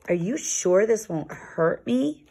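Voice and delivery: slow, a touch of worry; small puffin's gentle worry, slowed down; mildly anxious. Acted. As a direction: ask slowly, a little scared of the water. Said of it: "Yuri asked anxiously".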